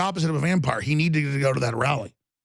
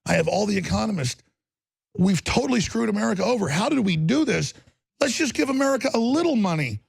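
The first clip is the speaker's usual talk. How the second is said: higher, rising into a mock Trump voice by the end; a hint of a higher impression of Trump talking to economists; 6 semitones higher than usual. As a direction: lightly play Trump as goofy and well-meaning. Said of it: "he goes".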